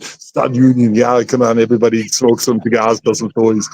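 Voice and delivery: lightly done impersonation of an action star; a hint of someone else's voice, imitated; Arnold. Actor retelling his bragging to a group, lightly impersonating Arnold. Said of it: "'Cause I was impersonating Arnold".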